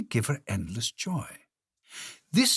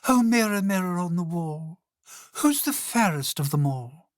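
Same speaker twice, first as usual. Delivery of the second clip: a bratty queen bellowing for praise; spoiled queen shouting; 7 semitones higher than usual. Acted. Spoiled queen demanding the mirror flatter her, shouting. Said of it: "the spoiled and stupid queen would shout".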